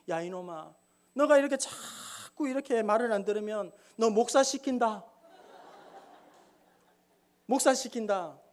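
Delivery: laughing threat to the ox, half-joking; a gruff warning broken by a laugh; mock threat. Pastor scolding the lazy ox with a laughing threat. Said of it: "목사님이 하시는 말".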